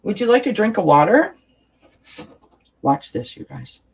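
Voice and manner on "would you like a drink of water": high, coaxing pet voice. Real, not acted. Mommy offering Charlotte water, high coaxing baby talk. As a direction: lure her in sweetly, voice up high.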